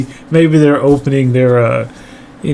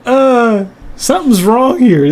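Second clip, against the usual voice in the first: worried mom; 9 semitones higher than usual. Retold or imitated. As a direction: raise the alarm like a flustered mother. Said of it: "she's like".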